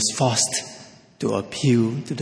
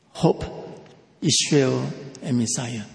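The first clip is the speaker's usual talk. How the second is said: hope, Israel, Messiah spaced out and fading softer; quieter repeat; 3 dB quieter than usual. Shown as a demonstration. Preacher repeating the three concepts softly. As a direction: repeat the list softly, word by word. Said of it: "string these three concepts together".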